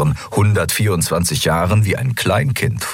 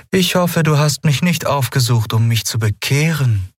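higher character voice with a cynical edge; cynical undertone; 9 semitones higher than usual. Acted. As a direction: let a dry cynicism creep in. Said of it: "Ein zynischer Unterton lag in Aylans Stimme". (zynischer Unterton)

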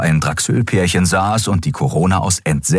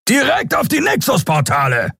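high, ringing alarmed report; roaring captain. Acted. Captain Sron roaring to his bridge crew, high and alarmed. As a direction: bellow the warning.

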